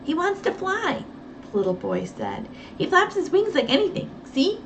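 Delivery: put-on a boy showing off the bird; Johnny, excited little boy. Little boy Johnny showing Nancy the bird, excited.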